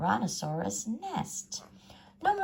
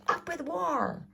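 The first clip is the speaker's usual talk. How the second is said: a high, slow war chant; shouting; 12 semitones higher than usual. A narrator's reading. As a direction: chant it as a battle cry. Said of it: "and they shouted".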